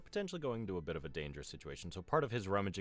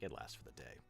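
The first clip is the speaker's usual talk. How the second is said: offhand; 8 semitones lower, 11 dB quieter than usual. Retold or imitated. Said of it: "we're usually just like".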